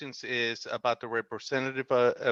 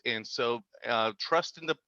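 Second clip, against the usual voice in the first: choppy audio, words dropping out; radio breaking up. Real, not acted. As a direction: signal cutting in and out. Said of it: "We lost you again".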